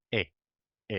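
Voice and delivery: "e" with lips spread wide to the sides, tongue in the middle. Shown as a demonstration. Teacher modelling "e" with spread lips. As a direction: say "e" with the lips pulled sideways. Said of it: "we spread our lips to the sides".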